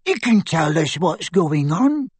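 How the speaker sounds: put-on high, measured old-lady demand; crisp old lady. A narrator's reading. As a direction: ask it slowly as a brisk grandmother. Elderly grandmother's put-on voice continues.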